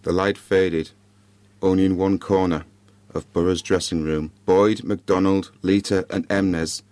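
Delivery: measured storytelling with dramatic pauses; story narration. A narrator's reading. Podcaster reads a Christmas ghost story to listeners, measured narration. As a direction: read it out in short, spaced phrases.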